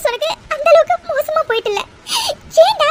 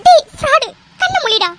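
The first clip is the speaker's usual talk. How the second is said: angry scolding; 2 semitones higher than usual. Acted. Wife scolding her fake-injured husband, angrily. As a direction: tell him off hard.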